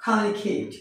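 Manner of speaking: Communicate said "kha-myu-ni-kheit"; correct pronunciation. Shown as a demonstration. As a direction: aspirate both k sounds in Communicate. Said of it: "আসলে এর উচ্চারণ হবে".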